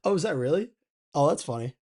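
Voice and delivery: ordinary talk, nothing marked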